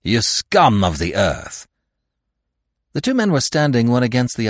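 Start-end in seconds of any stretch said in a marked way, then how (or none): 0.0-1.7 angry insult. Acted. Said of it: "repeating the insults".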